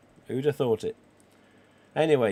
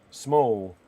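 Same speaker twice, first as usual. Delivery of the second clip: "small" set apart after a pause; stress on small; 4 dB louder than usual. Real, not acted. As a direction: land firmly on a lone "small". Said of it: "I do emphasise the word".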